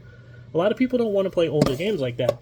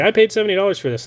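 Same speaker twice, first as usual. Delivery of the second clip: excited inner voice; 6 semitones higher, 6 dB louder, faster than usual. Retold or imitated. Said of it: "I was like".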